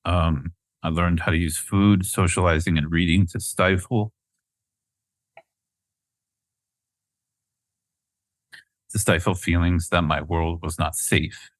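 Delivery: slow, steadied voice after tears; after crying. Real, not acted. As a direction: push through the tears slowly. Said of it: "Sorry, I'm getting teary".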